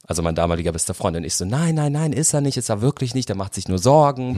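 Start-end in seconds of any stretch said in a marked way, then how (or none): 1.4-4.4 higher-pitched, insistent brushing-off; retold protest, playing it down; hasty denial. Friend insisting to worried sister he isn't gay, hasty higher-pitched denial. Hastily denying to prying sister.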